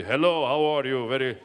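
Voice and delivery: put-on big, booming Persian-accented dad. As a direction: imitate a grand Persian father greeting the room. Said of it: "that's how he talked, like this".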